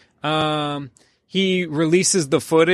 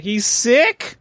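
higher, louder alarmed question; 7 semitones higher, 4 dB louder than usual. Retold or imitated. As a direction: blurt it out in alarm. Man's alarmed reply retold.

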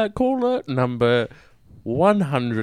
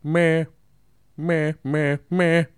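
sheep bleat; 3 semitones higher, slower than usual. Retold or imitated. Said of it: "make it a bit like that, that sound".

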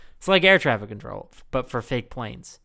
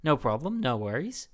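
nice, easygoing controller in mock Australian accent; 5 semitones higher than usual. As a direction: imitate a helpful Aussie-accented controller. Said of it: "doing Australian again".

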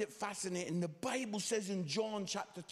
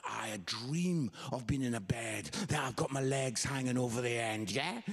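a hint of his dad, pitched lower and dreamy; lightly voiced dad, low; 9 semitones lower than usual. Telling the congregation about his short dad, a lightly lowered dad voice. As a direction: drop the voice a little for the wistful dad.

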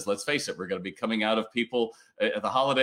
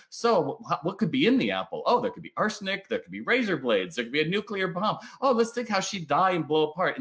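mock panic; 6 semitones higher than usual. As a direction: voice jumps higher, hammed-up catastrophizing. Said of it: "You're like".

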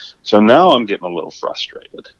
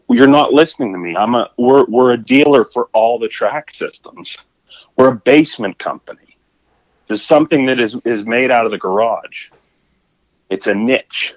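exasperated explaining; 3 semitones higher than usual. Retold or imitated. Confronting the interrupting man.

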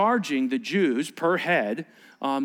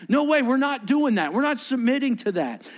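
higher, emphatic mock protest; defiant refusal; 8 semitones higher than usual. Pastor voicing the Pharisees refusing Rome, high and emphatic. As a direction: voice the Pharisees digging in their heels. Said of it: "the Pharisees were more like".

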